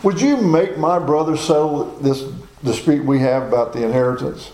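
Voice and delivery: fast, high and pushy, butting in mid-teaching; hammed-up impatient heckler, rushed and high; eager interrupting questioner. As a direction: interrupt Jesus with an urgent question. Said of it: "raising his hand like".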